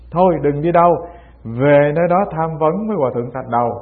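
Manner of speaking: brusque mock dismissal; retold scolding. Master sends the monk off to Thạch Đầu, mildly scolding. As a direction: send the student off with a mild rebuke. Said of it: "ông nạt cho một câu".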